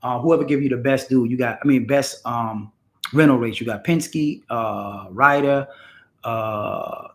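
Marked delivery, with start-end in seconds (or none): 1.9-7.1 blanking mid-list, halting; losing the words, stalling on names; brain freeze. Real, not acted. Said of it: "God, I got a brain freeze".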